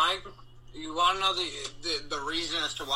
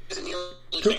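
pitch wobble glitch. Real, not acted. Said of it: "You're breaking up".

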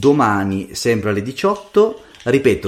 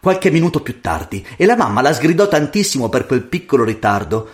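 lively storyteller's voice; fairy-tale narration; 3 semitones higher than usual. A narrator's reading. Storyteller reading a fairy tale to a child, lively narration. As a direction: tell it expressively to a child.

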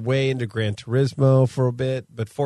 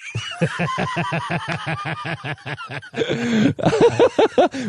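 high, long burst of laughter. Real, not acted.

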